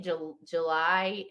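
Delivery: July said slowly and haltingly, stuck on the Jul; mispronounced July. Shown as a demonstration. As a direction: stretch July out very slowly, stumbling on the first syllable. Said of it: "the word I can't say is July".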